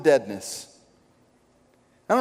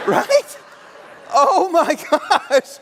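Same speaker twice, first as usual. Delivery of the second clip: laughing; 11 semitones higher, 4 dB louder, much slower than usual. Real, not acted. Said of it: "laughing after the whisper".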